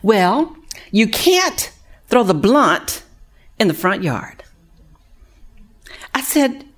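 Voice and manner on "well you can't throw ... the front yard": put-on slowed, drawn-out quoting of the young woman; lightly voiced resident explaining the obvious; imitating resident. To counselor, resident patiently explains her family rule.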